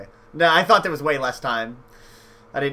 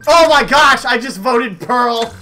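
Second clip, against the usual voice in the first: high, loud laughing dismay; laughing in shock; 7 semitones higher, 5 dB louder, slower than usual. Real, not acted. Player laughing after misclicking a vote on Pearl. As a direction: laugh at your own blunder. Accidentally votes a teammate.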